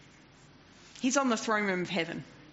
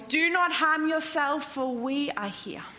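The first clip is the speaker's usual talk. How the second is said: loud voice; 4 semitones higher than usual. Acted. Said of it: "cried out in a loud voice".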